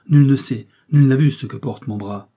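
loud declaration, pitch jumping at the start; proud, indignant protest. A narrator's reading. Miss Eden defends her secret to her rival, indignant. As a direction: draw up and declare it forcefully. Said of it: "fit Miss Eden en se redressant".

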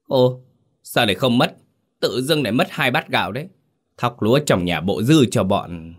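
a lightly voiced stingy landlord objecting; wide-eyed protest. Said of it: "Lão Xuân trợn mắt".

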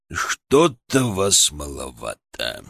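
slow, low grumbling boss; gloomy boss. Acted. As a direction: drag it out gloomily.

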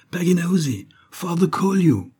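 put-on high-pitched girl's call, drawn out at the end. A narrator's reading. Girl calls Pagnos to her father, high calling voice. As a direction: call to someone off in the garden. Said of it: "La fillette dégringola les marches de marbre en criant".

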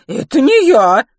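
very loud, high, drawn-out protest; indignant denial. Acted. Kitty denies waking the baby, loud and indignant. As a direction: wail that you are blameless. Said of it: "возмутилась Китти".

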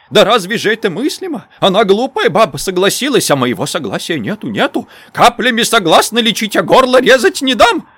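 high, loud granny's whine; whining old woman. A narrator's reading. Old granny wailing at the doctor in the hallway, high whine. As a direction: wail it like a stubborn old crone. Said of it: "голос заныл".

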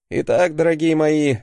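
lecturing teacher voice; mentor tone. Acted. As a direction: address them like a stern professor. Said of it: "менторским тоном начал я".

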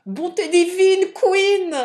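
high, loud shocked cry; high-pitched shouted protest; exclaiming. A narrator's reading. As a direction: cry out in alarm as a young woman. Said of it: "s'écria la jeune fille".

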